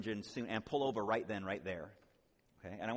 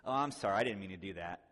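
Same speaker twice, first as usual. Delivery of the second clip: mock apology; 4 dB louder, faster than usual. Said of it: "That's saying".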